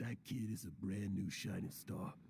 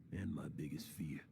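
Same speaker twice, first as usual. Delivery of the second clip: whispered admission; 7 semitones lower than usual. Acted. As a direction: let the fear slip out in a whisper. Admitting his biggest fear.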